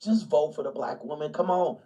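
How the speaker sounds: a lightly voiced pushy liberal, coaxing; half-hearted imitation of a preachy voter; mildly mocking come-on; mock liberal plea. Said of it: "it's like".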